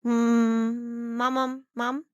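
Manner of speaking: put-on whiny kid. Child begging mom for ice cream.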